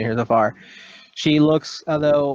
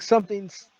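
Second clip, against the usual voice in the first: high-pitched, held-back yell; high cry from a yelling character; mock yelling; 8 semitones higher than usual. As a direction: act out a yell without much volume. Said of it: "He's kinda yelling".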